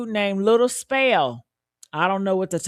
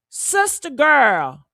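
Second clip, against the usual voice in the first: sarcastic; 3 semitones higher, much slower than usual. Real, not acted. Sarcastic address to sister.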